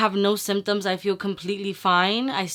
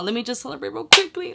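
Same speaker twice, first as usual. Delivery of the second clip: quick, higher-pitched happy aside; excited; 4 semitones higher, faster than usual. Real, not acted. Vlogger about to celebrate good results, excited and quick. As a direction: say it briskly, getting giddy. Celebrating negative test, first take.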